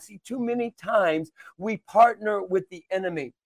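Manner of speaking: preacher's exhortation with punched key words; insistent preaching. Acted. Preacher telling listeners to stop partnering with the enemy, insistent. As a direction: urge listeners on with firm emphasis.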